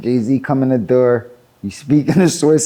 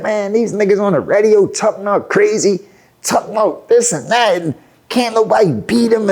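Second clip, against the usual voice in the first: higher-pitched, worked-up retold grievance; mild frustrated complaint; 6 semitones higher than usual. Artist griping to his producer about radio talk, mildly angry. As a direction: replay an indignant complaint. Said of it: "my face all frowned".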